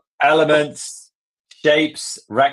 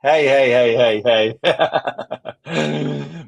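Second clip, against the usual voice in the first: loud protest; 3 semitones higher, 4 dB louder, much slower than usual. Real, not acted. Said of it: "Northern Ireland accent is as bad".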